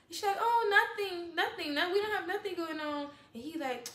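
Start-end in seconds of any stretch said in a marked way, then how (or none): 0.4-3.1 higher, lightly voiced other girl; mock innocent denial. Woman imitating the girl denying everything, mock innocent. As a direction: brush it off in a raised mock voice.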